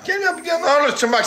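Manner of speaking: strained, choked-off voice; strangled voice. Real, not acted. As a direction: voice barely coming out. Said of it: "sesim çıkmıyor".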